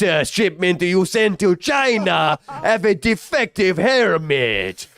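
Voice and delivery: slow, hammed-up Asian accent as a phone caller; mock exaggerated Asian accent. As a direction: drag out the words in a cartoonish Asian accent. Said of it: "I need the accent a little bit more".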